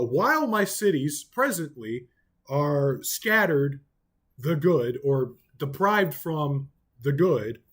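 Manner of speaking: slow, stretched "While my cities presently are scattered"; emphasis on the present. Shown as a demonstration. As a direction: drag the words out, stress "While" and the present. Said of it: "then the emphasis is on the present".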